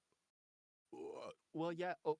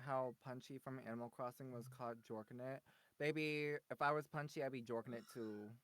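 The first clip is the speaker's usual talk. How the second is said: very soft, lower-pitched voice; 4 semitones lower, 11 dB quieter than usual. Pretend. Guest answers a question about Punchy, soft. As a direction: drop to a hushed, low murmur. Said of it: "Now you're all soft".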